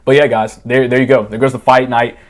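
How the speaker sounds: loud outro to the viewers. Real, not acted. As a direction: call it out to the camera.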